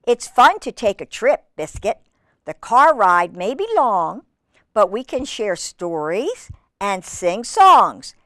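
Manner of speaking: measured, lilting storybook narration; reading to children. Acted. Reader telling children Biscuit's story, in a lilting read-aloud. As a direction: read it clearly to little listeners.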